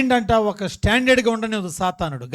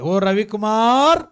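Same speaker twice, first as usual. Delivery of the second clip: drawn-out, louder mock summons; calling out; 3 semitones higher, 5 dB louder, much slower than usual. Preacher hailing an imagined member by name, drawn-out call.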